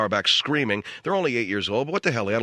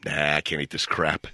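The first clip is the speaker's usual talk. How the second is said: mock bratty kid; 9 semitones lower than usual. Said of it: "when you pick it up and go".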